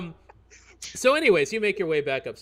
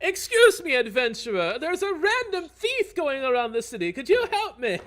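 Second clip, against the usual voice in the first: much higher, laughing squeaky voice; high-pitched NPC pestering the adventurer for help; squeaky quest-giver; 8 dB louder than usual. Acted. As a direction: beg the adventurer in a tiny high voice.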